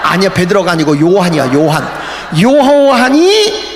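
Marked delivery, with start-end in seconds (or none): 2.4-3.6 slow reading. Shown as a demonstration. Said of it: "slow scripture reading".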